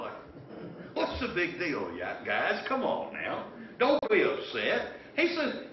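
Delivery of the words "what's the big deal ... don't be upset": mild-mannered. Acted. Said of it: "Jesus so mild-mannered about it all".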